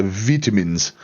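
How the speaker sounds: slow British-style "vitamins"; British accent. Retold or imitated. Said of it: "I love how the British say".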